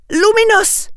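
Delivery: high, loud spell cry; shouted spell. A narrator's reading. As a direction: blast the spell out. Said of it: "and shouted".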